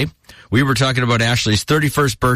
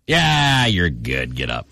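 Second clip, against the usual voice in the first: offhand brush-off; 4 semitones lower, slower than usual. Retold or imitated. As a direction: wave it off from the couch. Parent shrugging off kid's fall.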